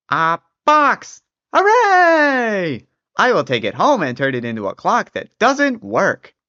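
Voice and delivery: high, loud delight; excited old man. Acted. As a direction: cheer like a happy old man. Old man finds a box.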